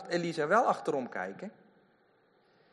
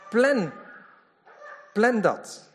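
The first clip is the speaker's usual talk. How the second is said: emphatic urging; 8 semitones higher, 8 dB louder, much slower than usual. Real, not acted. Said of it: "urging to plan Bible time".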